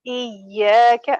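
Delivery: iyaka with a long, held ya; correct prolongation. Shown as a demonstration. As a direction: stretch ya and keep ka short in iyaka. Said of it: "we have to prolong the sound of ya".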